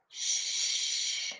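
breathy whispered shush. Acted. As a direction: hush yourself mid-song. Self-shushing in the library.

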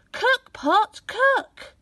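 put-on greedy boy gleefully saying the magic words; eager greedy boy. A narrator's reading. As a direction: say it with greedy glee.

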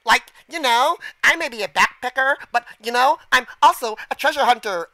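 lightly voiced Valley Girl, rising phrase ends. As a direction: read it as a mild Valley Girl. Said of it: "that Valley Girl thing".

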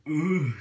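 fearful shudder. A narrator's reading. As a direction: let out a frightened "ugh". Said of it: "shuddering in fear".

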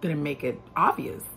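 fast, laughing "yes, I did"; laughing admission. Retold or imitated. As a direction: own up with a laugh. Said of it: "And I'm like".

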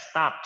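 "stop" followed by a released t puff; stopped with audible t. Shown as a demonstration. Teacher corrects the pupil's ending, "stop" with an audible t. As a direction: make the final t after "stop" heard. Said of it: "มีถึกด้วยนะ".

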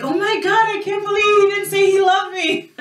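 high-pitched, laughing mock distress; mock upset wife. Wife mocking her own upset at a forgotten I love you, high and laughing. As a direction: ham up the hurt, half laughing.

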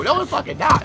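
ordinary delivery

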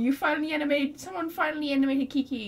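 high, gleeful thanks; excited. Real, not acted. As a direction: cheer it like a fan whose wish came true. Delighted the character is animated.

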